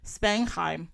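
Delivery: light German pronunciation on "Spangheim"; attempted German accent. Shown as a demonstration. Storyteller attempting the count's German place name, German accent. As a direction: say "Spangheim" in your best German, with a careful h. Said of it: "Doing my best German here with the ha".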